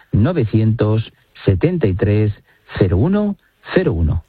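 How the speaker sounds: slow, evenly spaced digits; slowly repeated number. Shown as a demonstration. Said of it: "Lo repito despacito".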